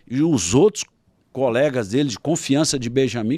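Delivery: ordinary delivery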